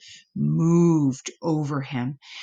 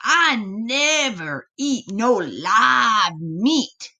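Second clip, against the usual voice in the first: lightly voiced picky buzzard, slow; 3 semitones higher, slower than usual. Buzzard refusing the live possum, slow and lightly voiced. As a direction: drawl it like a fussy old bird. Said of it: "it squawked".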